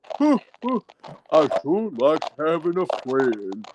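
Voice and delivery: lumbering friendly bear, deepened and drawled; Brer Bear voice. Shown as a demonstration. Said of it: "here's my Brer Bear".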